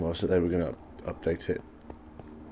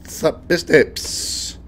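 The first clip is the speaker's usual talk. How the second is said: silly voice; 8 semitones higher, 7 dB louder, much slower than usual. Pretend. Silly greeting voice.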